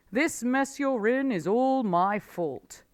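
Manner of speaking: the fox owning up to his friend; remorseful Mister Fox. A narrator's reading. Fox admits fault.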